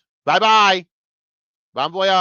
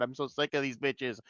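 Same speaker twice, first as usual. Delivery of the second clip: softer, under the breath; muttered complaint; 10 dB quieter than usual. Real, not acted. Fed-up viewer mutters his complaint about the characters quietly. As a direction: grumble it to yourself, soft.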